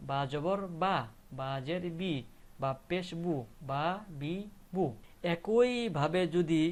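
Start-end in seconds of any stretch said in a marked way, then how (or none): 0.1-4.8 বা, বি, বু sounded out after each mark; spelling-out drill. Shown as a demonstration. Teacher answering how ba is pronounced, spelling-out drill. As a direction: recite বা, বি, বু as separate syllables. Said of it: "উচ্চারণটা হবে কি".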